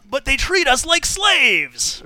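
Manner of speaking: mock dramatic android line. Android quote, slow high.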